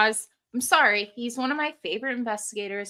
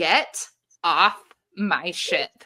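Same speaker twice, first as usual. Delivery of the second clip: very low, very angry, furious, menacing voice; 4 semitones lower than usual. Retell what an EVP recording from a ship said, imitating a really low, very angry voice. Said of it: "in this really low, very angry voice saying".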